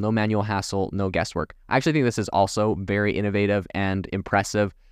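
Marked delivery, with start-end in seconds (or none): none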